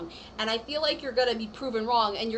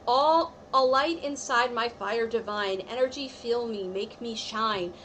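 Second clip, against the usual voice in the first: spell incantation; slower than usual. Acted. Reader voicing her deities' blessing to the viewer, slowly. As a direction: intone it like a small blessing.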